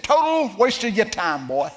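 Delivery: high, loud brush-off; gruff dismissal. Retold or imitated. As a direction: wave him off loudly. Bob dismissing the offer.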